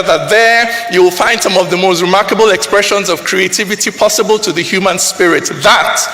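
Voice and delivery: rising oratory over music; building declamation. Acted. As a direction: build it like a rallying sermon. Poem climax over music.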